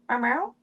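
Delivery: lightly voiced meow call; soft meow. Shown as a demonstration. Showing viewers the call cats answer, mild meow. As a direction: gently call like a cat. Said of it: "Most cats respond to that sound".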